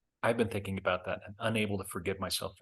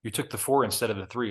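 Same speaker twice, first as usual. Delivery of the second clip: loud, higher angry chef scolding; fuming chef; 4 semitones higher, 7 dB louder than usual. Retold or imitated. Chef scolding the waiter for the wrong dish, furious. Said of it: "The chef is fuming".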